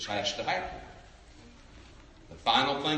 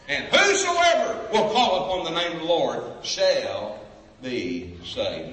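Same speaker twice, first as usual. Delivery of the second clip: preaching shout; 4 dB louder than usual. Acted. Preaching climax on the promise.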